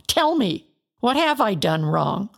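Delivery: a desperate outcry at his friends; anguished plea. Acted. Job pleads against accusing friends.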